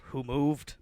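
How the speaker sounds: hint of a vintage newsreel voice; old newsreel narrator. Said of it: "that old, like, newsreel shit".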